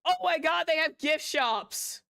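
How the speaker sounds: high, loud, drawn-out cry of delight; thrilled yell at the discovery; excited shout. Real, not acted. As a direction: shout it out in sheer disbelief. Gamer sees souvenir bear, exclaims.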